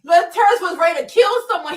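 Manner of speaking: milk it, high and loud; gleeful exaggeration. Real, not acted. Streamer loudly mocking how hurt Laterra was. Hysterical laughing retelling.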